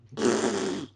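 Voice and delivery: sputtering crash sound effect; mouth-made rattling crash; imitated crash noise. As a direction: make the noise of a helicopter going down. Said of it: "It just went".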